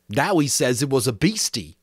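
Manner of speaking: lightly voiced schoolboy explaining; Piggy interpreting to the assembly; boy Piggy, earnest. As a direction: speak for the frightened child.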